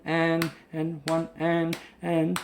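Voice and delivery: singing while short of breath; running out of air mid-count. Real, not acted. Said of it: "Sorry, I'm running out of breath".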